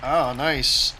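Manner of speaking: excited praise. Real, not acted. Teammate makes a good kill.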